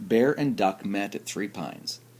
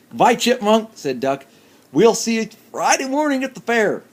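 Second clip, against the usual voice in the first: higher, fussy duck voice; 4 semitones higher, 5 dB louder than usual. Acted. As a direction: speak like a worried little duck. Duck character voice.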